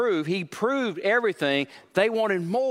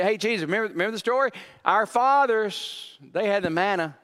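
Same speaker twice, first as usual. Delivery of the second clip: mock pleading crowd; 5 semitones higher than usual. Crowd voiced pleading with Jesus.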